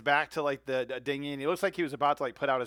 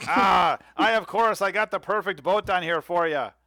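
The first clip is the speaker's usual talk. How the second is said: high, loud cheery hawker voice; eager boatman pitching his ride; folksy salesman; 6 semitones higher, 5 dB louder than usual. Acted. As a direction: sell the boat like a friendly huckster. Pete pitches his boat.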